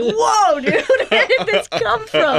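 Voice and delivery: high, laughing incredulous; laughing disbelief. Retold or imitated. Audience member laughing at the strange turn. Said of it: "you're like".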